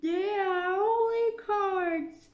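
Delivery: high, slow, dismissive; Alice's scornful thought. A narrator's reading. Alice thinks to herself, unimpressed. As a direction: shrug them off as only cards. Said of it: "she thought".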